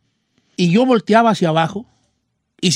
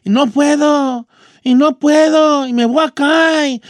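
put-on slow, higher, drawn-out whine of a stuck kid; scared pleading; 4 semitones higher, 3 dB louder, slower than usual. Boy stuck in a tree begs his friends, scared slow whine. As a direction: plead slowly that you're about to fall.

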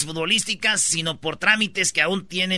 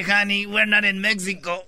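sexy; slower than usual. Retold or imitated. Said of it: "le dice bien sexy".

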